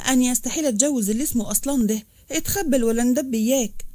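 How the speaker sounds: a daughter's understated sharp refusal of the marriage; sharp retort. Acted. Nesreen rejects marrying Aslan, mildly sharp. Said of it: "وقالت بحدة".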